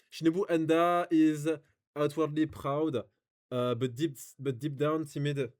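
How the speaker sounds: slow English reading with a French accent. Real, not acted. Streamer reading a review aloud, lazy French-accented English. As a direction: read English slowly, not bothering to hide the French accent. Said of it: "mon accent anglais".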